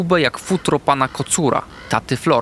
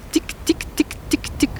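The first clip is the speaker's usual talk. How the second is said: whispered ticking; 5 dB quieter, faster than usual. Acted. Hamster imitates inner ticking.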